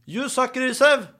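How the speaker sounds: high, slow call in Norwegian-accented English; Norwegian-English heckle. Shown as a demonstration. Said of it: "Jeg har, eh, norsk-engelsk".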